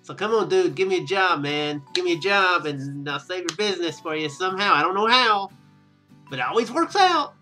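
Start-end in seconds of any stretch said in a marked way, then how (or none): none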